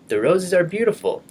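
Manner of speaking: high, lively excited reading; excited exclamation. Shown as a demonstration. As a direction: say it brightly with energy. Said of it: "with a lot of emotion or energy".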